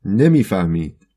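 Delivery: slow, loud shout across from the bench. Acted. Blind choirmaster shouts unasked from his bench, slow and loud. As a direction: call it out loud and drawn-out. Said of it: "فریاد کشید".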